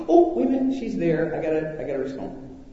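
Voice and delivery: mock child startle. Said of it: "they know there's a range".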